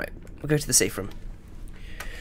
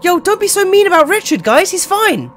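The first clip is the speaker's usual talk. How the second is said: put-on Richard voice; 11 semitones higher, 7 dB louder than usual.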